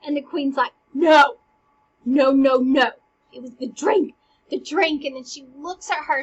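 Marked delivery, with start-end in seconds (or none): 0.9-5.0 loud desperate repeated no; urgent protest. Acted. Queen warning Hamlet about the poisoned drink, loud and desperate. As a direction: cry out to stop him.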